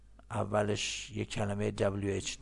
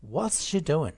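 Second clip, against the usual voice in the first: high "What's she", dropping down on "doing"; falling intonation; 6 semitones higher, 4 dB louder, much slower than usual. Shown as a demonstration. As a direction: let "doing" slide down from a high start. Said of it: "اومد پایین".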